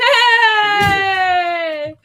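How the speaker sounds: sudden loud hey; shout. Real, not acted. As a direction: call out sharply. Sudden outburst.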